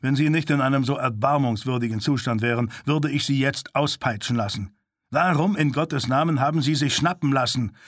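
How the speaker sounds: annoyed, building to a reproach; verärgert. Acted. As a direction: scold him, irritated and impatient. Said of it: "Er klang verärgert". (verärgert und tadelnd)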